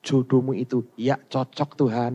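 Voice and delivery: low mock-divine pronouncement; imagined voice of God. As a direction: lightly imitate a slow, low heavenly voice. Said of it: "Tuhan ngomong". (menirukan sabda Tuhan dengan nada rendah)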